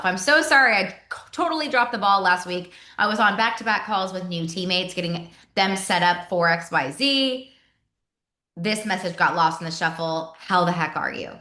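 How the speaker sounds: casual and easygoing, like texting a friend; just be yourself, relaxed and chatty; natural, friendly. Shown as a demonstration. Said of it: "That's exactly how I talk".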